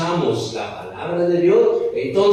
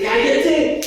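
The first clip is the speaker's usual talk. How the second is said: sharp high hush; 10 semitones higher than usual. Acted. Apóstoles callan a Bartimeo.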